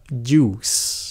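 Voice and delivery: "juice" drawn out with a hissing s ending; juice with final s. Shown as a demonstration. Teacher building the word, juice with final s. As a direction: add a clear s to end "juice". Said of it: "thêm cái âm xì phía sau".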